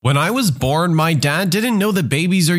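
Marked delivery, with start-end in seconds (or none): none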